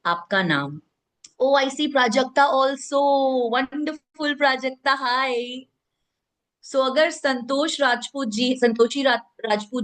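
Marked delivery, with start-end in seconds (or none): 1.4-5.3 lightly acted judge, pitched higher; a higher, singsong greeting to a contestant. Voices judges greeting a contestant by name. (जज का हल्का अभिनय, ऊँचे सुर में)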